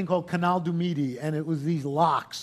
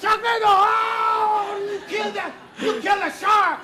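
high, excited bad French accent; outrageous French accent; 5 dB louder than usual. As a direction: exclaim in awe with a hammy French accent. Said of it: "an outrageous bad French accent".

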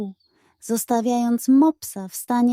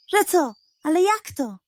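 higher, panicky hen voice; alarmed hen; 7 semitones higher, faster than usual. A narrator's reading. Hen hearing bad news, higher and alarmed. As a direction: gasp it out frightened.

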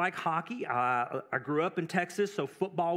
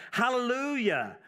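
hallelujah lifted higher, a little brighter; reading a joyful hallelujah; 5 semitones higher than usual. A narrator's reading. Preacher voicing heaven's crowd, a touch of joyful cry. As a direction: proclaim it like the crowd crying out. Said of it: "crying out".

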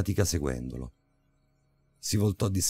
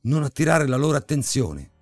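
rising from urgent to a loud, higher yell; inner scream; 8 semitones higher, 5 dB louder than usual. Acted. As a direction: panic building into a shout of warning. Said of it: "Il mio istinto mi urlava".

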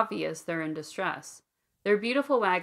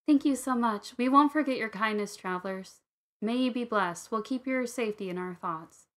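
grateful; 4 semitones higher than usual. Acted. Tiefling woman thanks departing travelers.

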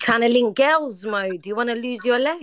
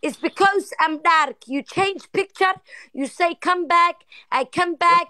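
mock jealous girlfriend; 7 semitones higher than usual. Prank caller accusing Mo of ignoring her, in a high mock-hurt voice. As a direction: play the wounded lover, pitched up and dragged out.

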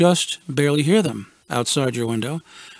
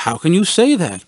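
mock self-defense; 4 semitones higher, 5 dB louder than usual. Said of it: "I stated in self-defense".

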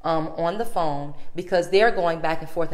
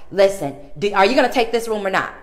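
mock snappy clerk; 3 semitones higher, 6 dB louder than usual.

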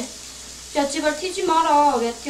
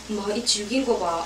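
ordinary delivery

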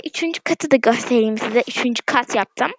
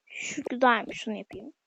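whisper; 3 semitones lower, 11 dB quieter than usual. Real, not acted. Whispering to herself.

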